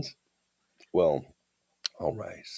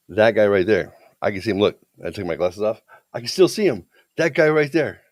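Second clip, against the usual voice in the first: stubbornly prove you can see him; obstinate; 2 semitones higher, 4 dB louder than usual. Retold or imitated. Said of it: "getting more obstinate".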